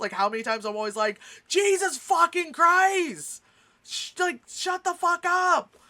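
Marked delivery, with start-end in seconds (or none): 1.5-5.6 shrill, deliberate, high, loud, drawn-out yell. Retelling what is always said to leftists: imitating own yelling. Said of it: "me always yelling at leftists".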